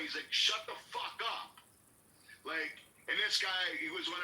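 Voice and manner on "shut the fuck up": high-pitched half-yell in imitation; retold yell. Fed-up guy shouting down the hecklers, retold restrained yell. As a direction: mimic a man jumping up to yell, held back. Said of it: "he started yelling".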